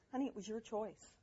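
softly voiced, matter-of-fact mom; calm mother, retold. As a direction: tell the child softly, without heat. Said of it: "and I go".

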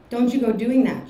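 put-on lightly crooned Jamaican accent. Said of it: "she croons in a familiar Jamaican accent".

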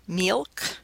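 "milk" said as "meelk"; tense-i pronunciation. Shown as a demonstration. Lecturer offering students options, "milk" said as "meelk". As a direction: say "milk" with a vowel near "see". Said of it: "a pronunciation like milk".

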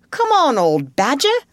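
high, loud call to a friend; shouting. A narrator's reading. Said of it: "shouted the rat".

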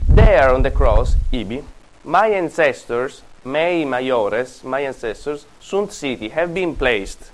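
slow, deliberate dramatic reading; reading aloud. Shown as a demonstration. Teacher reading a Latin comedy line to the class, slow and dramatic. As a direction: read the quoted lines slowly, like a stage speech. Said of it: "Let me read it".

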